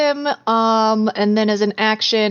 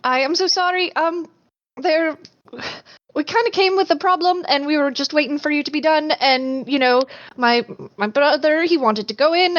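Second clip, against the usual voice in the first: high, fast, breathless apology; deferential apologetic girl; 4 semitones higher than usual. Acted. Changeling sister apologizing to the stump creature, high and flustered. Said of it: "to show deference and says".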